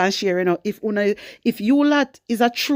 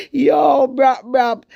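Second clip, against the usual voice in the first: loud yo and brap brap; hype shout; 4 semitones higher, 4 dB louder, much slower than usual. Real, not acted. Vlogger hyping up his viewers with a loud brap brap. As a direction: shout it like a dancehall hype man. Hype call after the quote.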